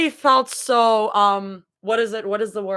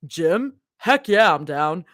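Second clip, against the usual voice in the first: Abby voice; 5 semitones lower, slower than usual. Acted. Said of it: "do y'all like my Abby voice".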